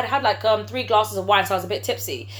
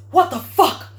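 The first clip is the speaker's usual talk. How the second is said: higher, louder imitation of his shock; stunned, looping disbelief; 5 semitones higher, 5 dB louder, slower than usual. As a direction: repeat it like a stuck record. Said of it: "in the same tone".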